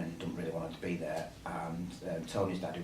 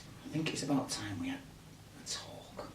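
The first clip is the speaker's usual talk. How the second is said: bad acting. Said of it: "Don't worry, excuse mine".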